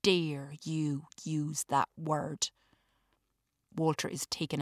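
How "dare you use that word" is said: fierce anger. A narrator's reading. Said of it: "with the ferocity of a lioness".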